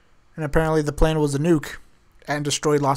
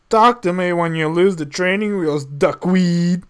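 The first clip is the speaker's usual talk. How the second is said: put-on lightly growled Clint Eastwood accent, a bit louder; 4 dB louder than usual. The speaker trying out a tough line, mild Clint Eastwood accent. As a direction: try on a Clint Eastwood accent, half-hearted. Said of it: "tried out in the Clees-, Clint Eastwood accent".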